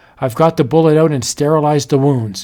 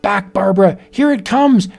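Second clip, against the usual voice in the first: urgent fight; 6 semitones higher than usual. Acted. Husband fights the werewolf.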